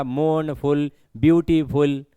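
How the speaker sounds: "मोर्नफुल", "ब्यूटीफुल" split before "फुल"; broken into syllables. Shown as a demonstration. Teacher shows words that must be broken, "मोर्न-फुल", "ब्यूटी-फुल" in pieces. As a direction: pull "मोर्नफुल" and "ब्यूटीफुल" apart into separate beats. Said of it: "तोड़ कर बोलना पड़ रहा है".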